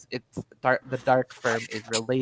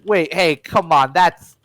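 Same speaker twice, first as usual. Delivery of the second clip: panicked protest; 5 semitones higher, 8 dB louder than usual. Acted. Fleming protests sigil slapped on.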